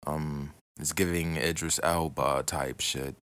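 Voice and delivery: relaxed British accent, easy delivery; easygoing London-style British accent; laid-back British accent. Shown as a demonstration. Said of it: "the more laid-back British accent".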